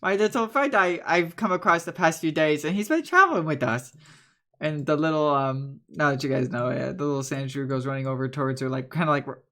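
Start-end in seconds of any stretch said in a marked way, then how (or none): 0.0-3.9 lightly voiced old woman and child; village characters. Bread woman and Riley introducing the group, lightly voiced. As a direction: chatter like townsfolk, stammering.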